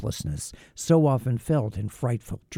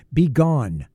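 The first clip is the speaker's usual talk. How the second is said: louder, a sharp order to leave; commanding shout; 3 semitones higher, 5 dB louder than usual. Acted. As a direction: drive the creature out with a cry. Victor orders the creature away.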